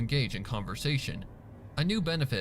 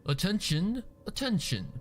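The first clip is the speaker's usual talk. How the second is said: higher formal call for attention; butler calling out; 8 semitones higher than usual. Acted. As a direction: call the room to order like a butler. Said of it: "Prim called".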